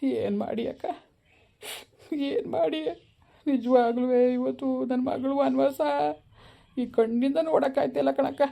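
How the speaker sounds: a father half-crying over his daughter's fate; tearful lament. Acted. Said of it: "ಯಾಕಣ್ಣ ಹೆಂಗ್ಸ್ನಂಗ್ ಅಳ್ತೀಯಲ್ಲಣ್ಣ".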